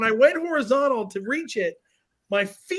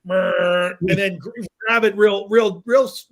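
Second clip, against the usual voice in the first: manly grab; 5 dB louder than usual. Shown as a demonstration. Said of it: "as a dude".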